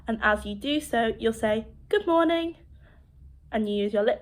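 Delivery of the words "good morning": higher-pitched sample greeting. Shown as a demonstration. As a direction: give a demonstration good morning, pitched up. Demonstrating a greeting with expression.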